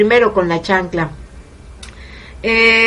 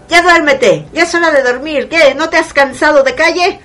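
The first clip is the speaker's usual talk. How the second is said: scolding mom; 5 semitones higher than usual. Retold or imitated. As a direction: nag the child to sleep. Mother scolding at bedtime.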